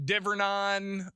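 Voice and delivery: Divernon said slowly as "DIV-er-NON"; Google's mispronunciation. Retold or imitated. Host mimicking Google saying a town name, mispronounced. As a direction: Divernon with short i and a drawn-out "non" ending. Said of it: "hearing how Google pronounces that".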